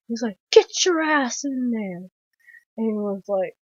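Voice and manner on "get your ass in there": lightly voiced ordering cook, higher; a hint of the old man's scolding order; scolding cook impression. Film fan as cook ordering the boy inside, mild scold.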